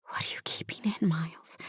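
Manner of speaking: hushed, intimate question; whisper. A narrator's reading. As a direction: ask it in a very soft whisper. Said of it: "I whisper".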